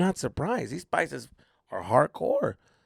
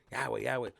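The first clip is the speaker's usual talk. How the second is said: soothing; 3 semitones lower, 8 dB quieter, much faster than usual. Retold or imitated. Teammates patting his back, calming.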